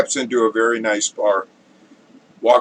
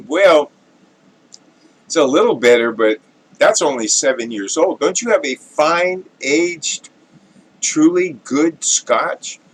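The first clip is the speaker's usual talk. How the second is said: fussy connoisseur; 4 semitones higher than usual. Acted. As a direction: dismiss it like a snob, drawing out truly. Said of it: "the very distinguished gentleman".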